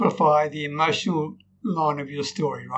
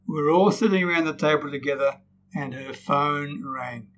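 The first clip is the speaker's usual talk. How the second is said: slightly lowered, sinking storytelling; downcast tone; 2 semitones lower, 4 dB quieter than usual. Shown as a demonstration. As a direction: let the voice drop to hint at bad news. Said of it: "simply by the tone in my voice".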